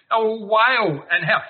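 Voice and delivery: Micah wailing. Retold or imitated. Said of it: "This is Micah speaking".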